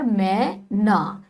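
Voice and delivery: मैं ना said very slowly with the ai in मैं stretched; drawn-out vowel. Shown as a demonstration. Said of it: "तो मैं पे खींचने की आवाज आ रही है".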